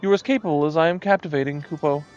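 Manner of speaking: lightly voiced preening moogle; a hint of a pompous little moogle; vain moogle voice. Reads moogle dialogue aloud.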